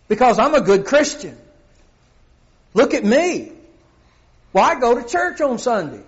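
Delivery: smug self-righteous. Pretend. Mocking a self-righteous churchgoer.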